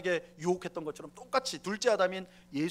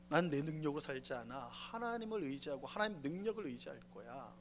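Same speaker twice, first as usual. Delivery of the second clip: Jesus' firm reply; 5 dB louder than usual. Acted. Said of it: "예수님 뭐라고 합니까?".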